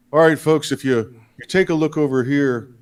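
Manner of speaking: a lightly voiced Biden, folksy and rambling; a hint of Biden addressing the crowd; Joe Biden impression. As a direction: amble through it like Biden at a town hall. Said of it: "here's my impression of, uh, Joe Biden's town hall".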